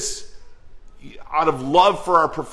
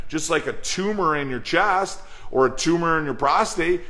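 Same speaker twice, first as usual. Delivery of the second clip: usual speaking voice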